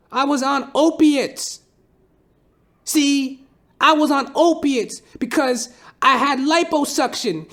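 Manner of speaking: very high, loud, slow rant to a crowd; high-pitched hammed-up impression of a rapper ranting to the audience. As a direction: preach it like a drugged-up rapper on stage, stretched out and shouting. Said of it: "he stands up and he goes".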